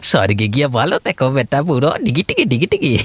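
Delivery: fast, mocking sing-song jeer; gloating taunt. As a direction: taunt him like a cruel child. Villain taunting victim. (বিদ্রূপ করে ঠাট্টা)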